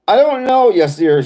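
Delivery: mock high female voice. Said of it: "she said".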